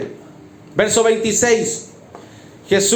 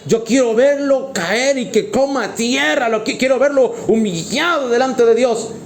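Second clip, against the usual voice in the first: lightly acted gloating spite, pitched up; spiteful carnal onlooker; 3 semitones higher than usual. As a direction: voice a hint of someone relishing another's downfall. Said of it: "al carnal le repudre, porque dice".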